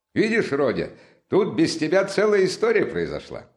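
excitable friend recounting his exploits; lively Razumikhin. Acted. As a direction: pour out the tale with eager emphasis.

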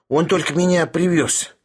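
high, meek explanation; respectful. A narrator's reading. Sharikov explains the truck to Bormental, respectful. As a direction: explain it deferentially. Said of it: "почтительно ответил Полиграф".

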